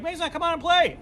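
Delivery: high, loud invitation; calling out. Retold or imitated. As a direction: wave him over to play. Friends calling him over.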